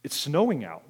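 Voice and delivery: halting, with a long pause before finishing; struggling to say it. Retold or imitated. Cousin reporting the snow to diners, haltingly. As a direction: imitate someone barely able to get the words out. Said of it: "he couldn't even say it out loud".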